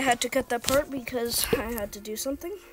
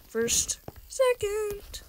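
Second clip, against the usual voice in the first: whisper; 9 semitones higher, much slower than usual. Real, not acted. Counting down softly.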